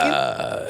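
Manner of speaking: drawn-out rumbling "uh"; Vin Diesel. Retold or imitated. Answering what noise his co-star made, rumbling imitation. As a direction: lightly mimic a co-star's wordless rumble. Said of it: "what noise was Vin making?".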